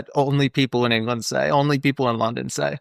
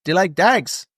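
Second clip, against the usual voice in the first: put-on Irish traveller accent; 4 semitones higher than usual. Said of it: "and he goes".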